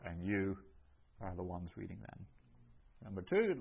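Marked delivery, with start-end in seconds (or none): 0.1-2.3 "you" stressed, the rest quick and softer; emphatic you. Shown as a demonstration. Teacher explains the emphatic pronoun, stressing "you". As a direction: hit "you", pause, then hurry the rest softly. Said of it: "emphatic for".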